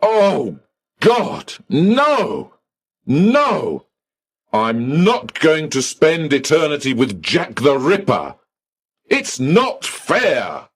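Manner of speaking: high, wailing distressed outburst; man stamping his foot at the clerk, childish anguished wail; angry child tantrum. Acted. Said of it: "like an angry child".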